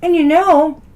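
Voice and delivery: talking with food in mouth; mouth full. Real, not acted. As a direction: speak around a bite of food. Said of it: "I'm talking with food in my mouth".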